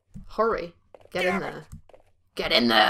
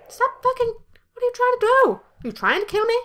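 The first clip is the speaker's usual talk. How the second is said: much higher, louder indignant shouting; high pitched outraged protest; outraged shrill yell; 14 semitones higher, 5 dB louder than usual. Real, not acted. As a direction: yell at the game in disbelief. Game shooting at him.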